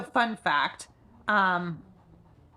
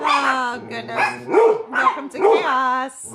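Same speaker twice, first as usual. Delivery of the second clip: exasperated loud; 4 semitones higher, 6 dB louder, slower than usual. Real, not acted. Dogs barking chaos.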